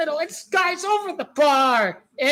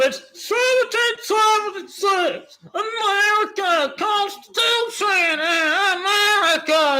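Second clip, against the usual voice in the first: lightly mocked patriot, pitched up; patriotic American; 3 semitones higher than usual. Streamer mimics why he backs America, mock patriotic cry. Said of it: "is what he said".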